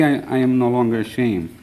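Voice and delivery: ordinary talk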